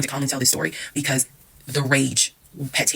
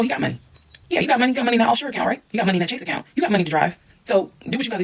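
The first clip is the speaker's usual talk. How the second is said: high-pitched yelling rant from the background; 9 semitones higher than usual. Retelling what she yelled at him during the fight: retelling her own yelling. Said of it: "I'm yelling in the background".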